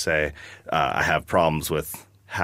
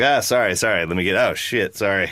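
flustered apology; 2 semitones higher than usual. Retold or imitated. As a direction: stumble out of the way apologizing. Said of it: "So I was like".

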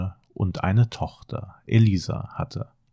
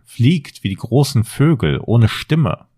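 evil queen; 3 semitones higher, 6 dB louder than usual. Acted. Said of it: "sagte die böse Königin".

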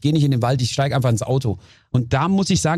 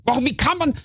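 retold car outburst; 8 semitones higher than usual. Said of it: "weil ich mich total vergessen hab".

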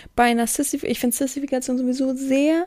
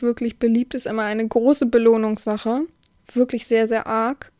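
usual speaking voice

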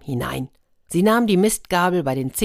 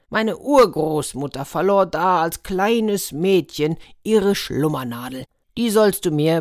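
a hint of a commanding giant, a bit emphatic; storybook giant giving orders, lightly played; lightly voiced demanding giant; 3 dB louder than usual. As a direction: hand out the task as the giant. Giant sets the stable task.

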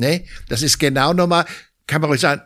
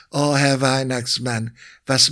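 imitated wife; slower than usual. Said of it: "nach Hause kommen und sagen".

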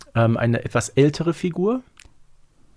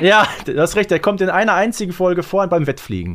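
lively, raised and louder; excited; 6 semitones higher, 4 dB louder than usual. Real, not acted. Podcaster still excited after guessing right. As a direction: rattle it off, still thrilled.

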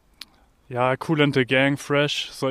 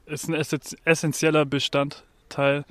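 frozen tongue. Real, not acted. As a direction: fumble "essentieller Bestandteil" with a frozen tongue. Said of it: "Gerade ist meine Zunge schon eingefroren". (mit eingefrorener Zunge)

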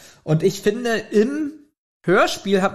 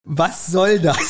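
exasperated outburst; slower than usual. Real, not acted. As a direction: throw the question out in amused outrage. Incredulous about the book scene.

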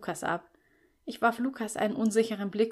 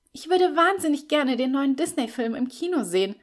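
louder, bright and eager; beaming announcement; 6 semitones higher, 5 dB louder than usual. A narrator's reading. Steffi proposing the Disney film, beaming. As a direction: announce it with delight. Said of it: "verkündete sie strahlend".

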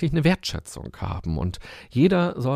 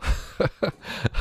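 breathy laugh; 8 semitones higher than usual. Real, not acted. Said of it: "wie eine Sängerin".

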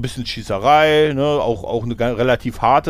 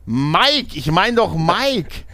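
caller correcting; 6 semitones higher, much slower than usual. Retold or imitated.

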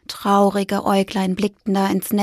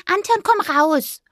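lightly voiced mouse; 9 semitones higher than usual. A narrator's reading. Fipper calling.

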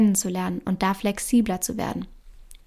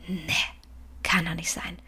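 resigned murmur; 4 semitones lower, 8 dB quieter than usual. Retold or imitated. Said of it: "mal sagen".

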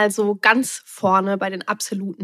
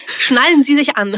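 flight attendant; 5 semitones higher, 8 dB louder than usual. Pretend. Playful flight announcement after intro.

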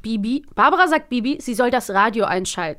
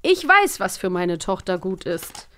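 stern father; slower than usual. Retold or imitated. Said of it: "Bernhard Blocksberg ... entgegnet er".

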